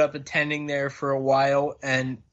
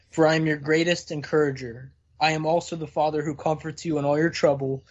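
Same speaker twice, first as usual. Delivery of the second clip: earnest, measured reading of a tract; reading aloud. Real, not acted. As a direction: read it out sincerely, phrase by phrase. Reads a religious tract aloud.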